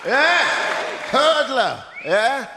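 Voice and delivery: hammed-up high voice teasing a hurdler; high-voice mockery. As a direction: squeak it up to tease the guest. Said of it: "it's like your high voice".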